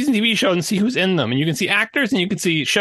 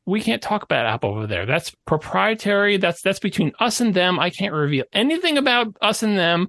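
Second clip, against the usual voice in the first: corporate stonewall. Retold or imitated. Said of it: "they'll say to you".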